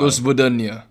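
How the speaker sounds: Russian accent. Shown as a demonstration. Saying goodbye on request, Russian accent. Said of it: "isang Russian".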